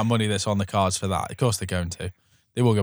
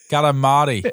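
South African accent; 3 semitones higher, 4 dB louder than usual. Shown as a demonstration. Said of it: "I think South African is".

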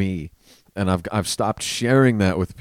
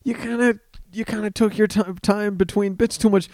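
higher, offhand critique, imitating a fellow comic; mock comic's excuse; 11 semitones higher than usual. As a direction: hand out the note lightly, in a higher voice. Imitating comic's excuse on ride home.

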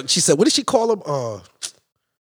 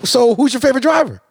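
pitched up and louder, prying; high skeptical lady; 6 semitones higher, 3 dB louder than usual. Retold or imitated. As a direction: imitate her quizzing him, higher. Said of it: "She says".

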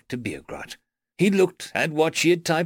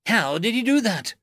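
high-pitched startled squeak; 9 semitones higher than usual. A narrator's reading. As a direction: squeak the question in alarm. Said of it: "squeaked Bugrat".

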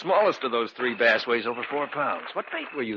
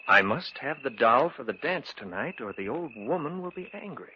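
lightly mimicking the stranger's odd phrasing; a hint of an eerie stranger; mocking imitation. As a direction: repeat his strange words half-amused. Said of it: "He talked so strangely".

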